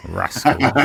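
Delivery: put-on Cornish accent on one word; playful Cornish turn. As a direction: drop lightly into Cornish. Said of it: "as they say in Cornwall".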